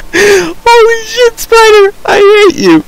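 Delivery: very high, loud wail of fright; scared squeal. Real, not acted. Gamer yelling at the spider that jumped them, scared squeal. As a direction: squeal it at the top of your range. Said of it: "seriously scared the crap out of me".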